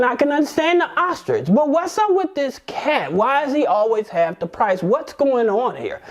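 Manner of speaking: high, incredulous outburst; exasperated bartender pitches way up; baffled bartender. Acted. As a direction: demand to know what's going on. Joke: bartender baffled by cat.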